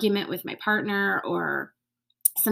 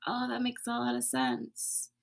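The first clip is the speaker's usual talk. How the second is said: softer, gentle, sincere; soft realization; 4 semitones higher, 7 dB quieter than usual. Retold or imitated. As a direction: let it land as a quiet inner realization. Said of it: "They're just like".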